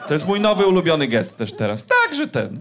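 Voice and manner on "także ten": high, dismissive sing-song shrug of a phrase; mum's dismissive tone. Retold or imitated. Mum closing the gruesome story, high dismissive shrug. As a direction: toss it off like a mum ending the topic. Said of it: "Mama to powiedziała takim głosem".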